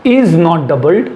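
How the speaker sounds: drawn-out words, carefully spaced for learners; slow, deliberate reading. Shown as a demonstration. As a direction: read the rule slowly and clearly. Teacher reads rule out deliberately. (धीरे-धीरे, साफ़ पढ़ते हुए)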